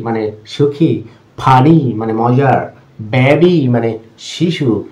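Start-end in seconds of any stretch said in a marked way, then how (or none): 1.4-1.9 "ফানি" with its final "ই" stretched; long final ee. Shown as a demonstration. Teacher giving another long Y example, long final ee. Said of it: "দীর্ঘ ই". 3.0-3.6 "বেবি" slowly, with a held "ই" ending; long final ee. Shown as a demonstration. Teacher giving another long Y example, long final ee. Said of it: "শেষের ওয়াইগুলো দীর্ঘ ই".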